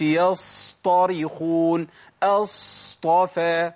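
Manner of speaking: يصطرخون and أصطفى with the ص dragged far too long; overlong sad. Shown as a demonstration. Teacher showing a timing mistake, exaggerated drawn-out sad. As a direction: stretch the ص excessively, very slow. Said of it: "كل ده خطأ".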